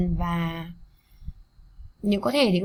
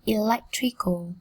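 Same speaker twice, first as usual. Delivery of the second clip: Electrical, short pause, appliance, slowly; slow reading; slower than usual. Shown as a demonstration. Teacher reading for students to follow, slowly. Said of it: "Cô giáo đọc chậm nhá".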